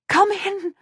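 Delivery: high, loud whimpering plea. A narrator's reading. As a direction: whimper it out in fear. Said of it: "the woman whimpers".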